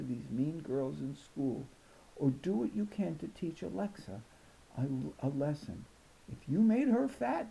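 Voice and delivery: lightly voiced grandma praying; bedside prayer. A narrator's reading. Grandma prays with Danielle at bedtime, gentle. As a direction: plead gently to God.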